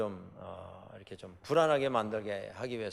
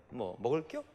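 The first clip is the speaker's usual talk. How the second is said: put-on Chungcheong accent; 5 dB quieter than usual. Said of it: "느린 척하면서 급할 때는 빨리 하는".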